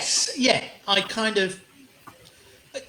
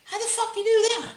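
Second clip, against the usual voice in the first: mock amazement, pitched up; amazed onlookers. Onlookers asking how he does it, mock amazement. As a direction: imitate baffled onlookers, higher.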